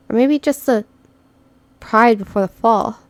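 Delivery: ordinary talk, nothing marked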